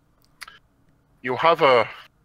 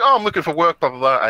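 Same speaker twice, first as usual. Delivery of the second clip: mock Katyusha voice; 6 semitones higher, 6 dB louder, faster than usual. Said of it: "she's like".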